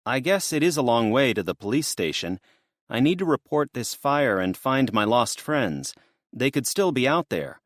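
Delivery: put-on earnest worried young woman. Voices young woman Destiny.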